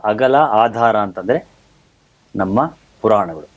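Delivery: measured presenter delivery with deliberate pauses; formal host introduction. Acted. Host opens a programme on stage traditions, formal presenter delivery. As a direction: lift each opening phrase, then let it settle down.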